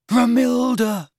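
high, drawn-out swoon; rapt. Acted. Lovesick lad hearing beloved's name, rapt. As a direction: sigh the name in wonder.

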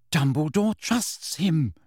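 slow, each word pressed; insistent repeat. A narrator's reading. Hermione repeating her point to Ron, slow and insistent. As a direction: repeat it slowly, pressing Dumbledore. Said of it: "Hermione repeated".

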